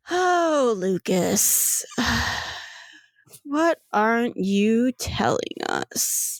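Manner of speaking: lilting, sighed mock sweetness; slow, teasing coo with a sigh; lightly giggling. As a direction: toy with him, drawing words out. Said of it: "giggling, like, very lightly".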